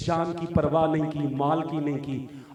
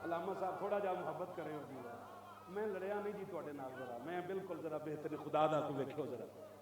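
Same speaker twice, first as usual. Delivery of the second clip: very quiet, quick aside; soft appeal; 2 semitones lower, 12 dB quieter, faster than usual. Real, not acted. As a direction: drop the voice and plead gently with the scholar. Soft appeal after loud rebuke. (धीमी आवाज़ विच नरम गुज़ारिश)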